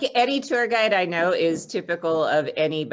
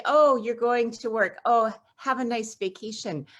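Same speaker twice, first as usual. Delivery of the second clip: higher-pitched, lightly mocking quote; mildly mock-cheery send-off; imitating clueless well-wishers; 5 semitones higher than usual. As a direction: airily mimic friends who don't get it. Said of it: "people who are close to me will say".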